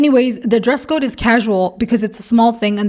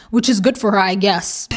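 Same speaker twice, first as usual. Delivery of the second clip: backhanded. Real, not acted. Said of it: "that sounded so backhanded".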